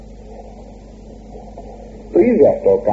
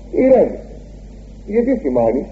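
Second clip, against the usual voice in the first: high, tender urging; God calming Cain; 3 semitones higher than usual. Acted. God gently calming angry Cain, raised pitch. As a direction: soothe the angry son gently. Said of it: "Του λέει ο Θεός".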